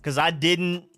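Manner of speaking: talking through a retainer in the mouth; slightly slurred retainer speech; wearing a retainer. Real, not acted. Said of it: "It's just I talk crazy".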